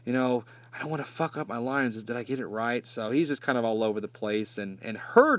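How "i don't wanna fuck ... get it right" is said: nervous actor. Retold or imitated. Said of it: "looking around at times nervously like".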